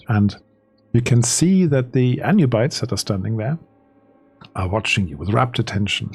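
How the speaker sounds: measured, deliberate scene setting; game master narration. Acted. Game master describes the ritual to players, measured narration.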